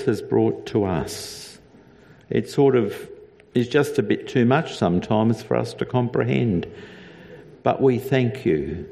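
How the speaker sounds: earnest spoken prayer to God. Acted. The pastor praying for the congregation, reverent and earnest.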